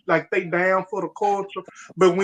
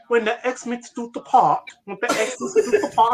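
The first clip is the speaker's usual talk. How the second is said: mock British quote; imitated British accent; 3 semitones higher than usual. Quoting the actor to friends, in a put-on British accent. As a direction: mimic the actor's British speech. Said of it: "He's trying to act British".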